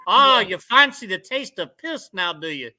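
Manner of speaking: mock Australian bartender. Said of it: "the bartender was like".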